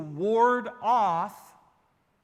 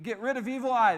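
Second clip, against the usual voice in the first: broken English; 2 semitones higher, faster than usual. Retold or imitated. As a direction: hawk it like a market seller with little English. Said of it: "they say".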